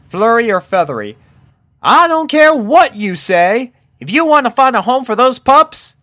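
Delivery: laying down the law to her friend; stern Applejack. A narrator's reading. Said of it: "said Applejack sternly".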